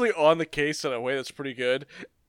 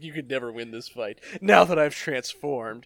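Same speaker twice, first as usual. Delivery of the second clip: stone cold; 5 semitones lower than usual. Retold or imitated. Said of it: "He's like".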